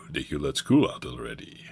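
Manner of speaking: hushed, breathless whisper. Acted. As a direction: whisper the question secretly. Teacher option read twice.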